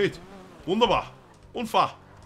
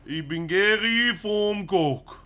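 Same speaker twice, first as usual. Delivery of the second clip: slow, drawn-out disguised voice; 3 semitones higher, much slower than usual. Shown as a demonstration. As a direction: stretch every word to hide your voice. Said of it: "Versucht deine Stimme zu verstellen". (verstellte Stimme)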